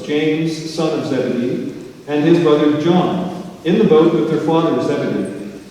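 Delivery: measured public Bible reading; scripture reading. Acted. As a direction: read scripture aloud, phrase by phrase with pauses. Reads the Bible passage aloud.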